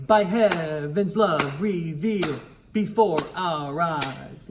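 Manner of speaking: beats marked, "revealed" held; rhythm demo. Shown as a demonstration. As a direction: chant it in strict time. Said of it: "do that rhythm one more time".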